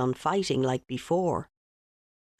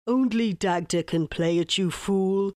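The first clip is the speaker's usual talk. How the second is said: roaring king. Acted. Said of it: "the king roared".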